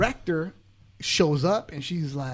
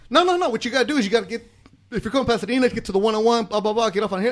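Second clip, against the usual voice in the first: eager interruption; 5 semitones higher, faster than usual. Retold or imitated. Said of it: "out of nowhere I pop up".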